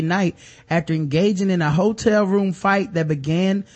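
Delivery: reading an article aloud; news reading. Acted. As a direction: read it like a news report.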